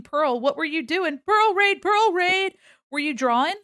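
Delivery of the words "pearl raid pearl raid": loud, high raid call; excited shout. Real, not acted. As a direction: cheer as the raid lands. Raid arrives on stream.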